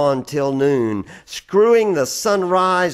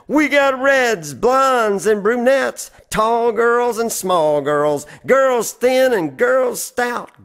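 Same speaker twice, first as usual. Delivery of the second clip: put-on loud, high carnival barker hawking girls; barker's yell; 9 semitones higher, 4 dB louder than usual. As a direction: bellow it like a fairground crier pulling in a crowd.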